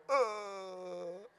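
soft, drawn-out dumbstruck "uhh"; stunned groan. Acted. Paralyzed toddlers answering the big man, stunned groan. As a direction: freeze up with a long, quiet groan.

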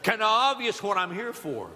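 acted sarcastic "duh"; mock-dumbfounded blind man's retort. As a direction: answer as if it's painfully obvious. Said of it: "I have the gift of sarcasm".

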